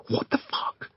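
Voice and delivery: voiceless mouthed curse. Acted. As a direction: hiss it silently across the room. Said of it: "mouths Marco".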